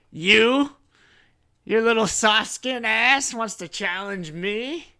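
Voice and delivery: high, loud mocking disbelief; incredulous murloc chief. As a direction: scoff at the nerve of it. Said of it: "and he says".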